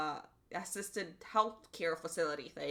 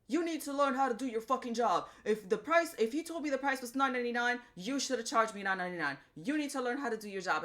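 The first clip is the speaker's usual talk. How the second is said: mock loudmouth customer, pitched higher; pissy customer; 4 semitones higher than usual. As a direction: bark it back as the rude customer, hammed up. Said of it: "getting all loudmouth with her and getting all pissy".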